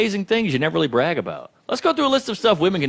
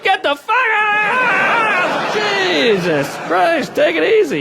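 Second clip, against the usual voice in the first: much higher, drawn-out shrieking outburst; startled yell; 13 semitones higher, 4 dB louder, much slower than usual. Retold or imitated. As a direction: scream it like being walked in on. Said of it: "She was like".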